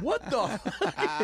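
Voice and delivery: drawn-out mock outrage; mock exasperation. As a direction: drag it out like a man getting fed up. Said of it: "He's getting progressively pissed off".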